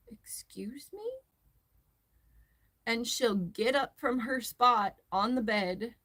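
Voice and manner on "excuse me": whispered, indignant excuse me; affronted whisper. Retold or imitated. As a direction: whisper it like an offended cat. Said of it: "she will just be like".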